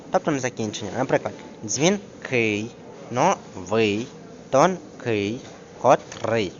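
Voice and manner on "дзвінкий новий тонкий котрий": ДЗВІНКИЙ, НОВИЙ, ТОНКИЙ, КОТРИЙ each landing on the last syllable; stress on second syllable. Shown as a demonstration. Teacher giving examples, stress on second syllable. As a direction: split each word and stress the ending. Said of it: "наголос падає на другий склад".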